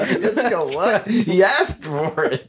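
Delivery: slow, laughing through the words; can't stop laughing at the punchline. Real, not acted. Still laughing about punchline.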